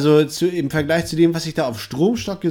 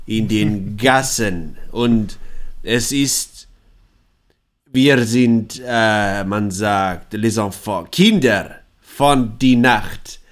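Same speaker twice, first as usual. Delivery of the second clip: lower, slow Eastern European vampire voice; Hungarian vampire accent; 3 semitones lower, slower than usual. Acted. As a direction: play a broken-German vampire from Ungarn. Plays the half-vampire.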